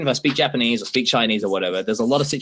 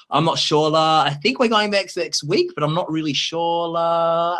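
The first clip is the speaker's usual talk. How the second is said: Hong Kong English; 2 semitones higher than usual. Retold or imitated. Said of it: "I'm like".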